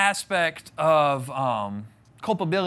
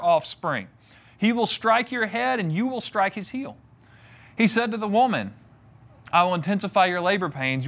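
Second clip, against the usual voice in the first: scripture reading. Acted. Reading God's curse.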